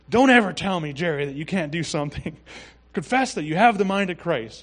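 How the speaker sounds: loud, forceful rebuke with a hard opening burst; Brother Copeland. Retold or imitated. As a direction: imitate a mentor laying down the law. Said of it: "he would say it that strongly".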